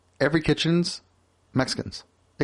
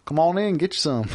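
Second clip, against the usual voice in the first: put-on Southern accent; 5 semitones higher than usual. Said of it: "it was a little south".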